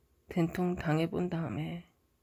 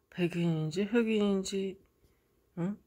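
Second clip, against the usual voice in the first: usual speaking voice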